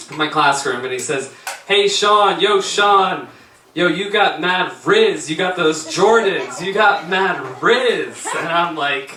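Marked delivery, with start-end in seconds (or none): 1.7-8.3 lightly voiced student, drawn-out words. Student greeting teacher in class, lightly imitated drawl. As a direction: stretch it out like a student hyping his teacher. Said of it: "one kid who's always coming in my room".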